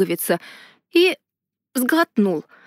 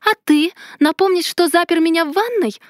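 higher, sharp snarled comeback; growled retort; 7 semitones higher than usual. A narrator's reading. Heroine growls back at the mage, sharp higher retort. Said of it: "рыкнула в ответ".

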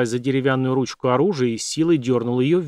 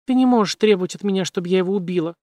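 desperate plea; 6 semitones higher, faster than usual. A narrator's reading. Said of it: "сказала она".

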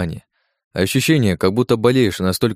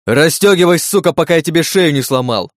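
loud, higher, savage demand; furious threat; 7 semitones higher, 5 dB louder than usual. Acted. Choking the doctor, demands he unbuckle him, furious. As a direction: tear the order out at him.

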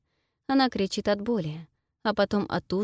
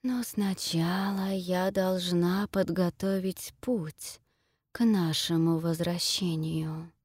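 talking tree; slower than usual. Acted. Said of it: "говорит дерево".

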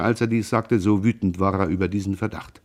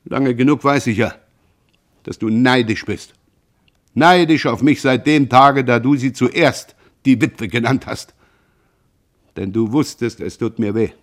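venomous taunt; 2 semitones higher, 4 dB louder than usual. Acted. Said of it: "um sie schärfer, giftiger zuzuspitzen".

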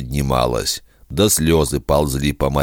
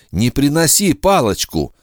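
pleading; 10 semitones higher than usual. Acted. Repeated, rising plea.

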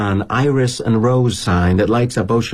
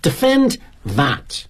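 put-on challenging Brit kid; 4 semitones higher, much slower than usual. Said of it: "he says".

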